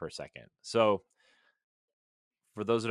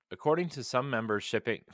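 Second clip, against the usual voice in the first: blocked nose, stuffed up; stuffy nose; 6 semitones higher, 4 dB louder than usual. Real, not acted. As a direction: talk through a stuffy nose. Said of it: "sorry, my nose is really stuffy".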